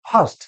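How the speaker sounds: ফার্স্ট said as "fast", with no r colour; common mispronunciation. Shown as a demonstration. Teacher quoting what many people say, mispronounced. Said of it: "অনেকে বলছে ফার্স্ট".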